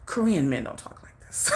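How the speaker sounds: low, hushed imitation of a shocked older man; shocked disapproval. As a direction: retell his disbelief softly and low. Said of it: "he was shocked".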